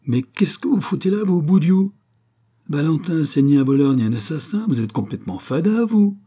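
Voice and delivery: put-on high, loud scolding old lady; old neighbour shouting at Volpi, high and furious; angry old Provençal woman. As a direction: tear into the policeman like an outraged grandmother. Old landlady scolds the commissaire.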